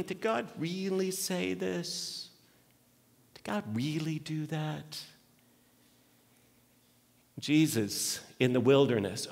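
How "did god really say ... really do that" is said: Satan's insinuation. Retold or imitated. Satan in the garden.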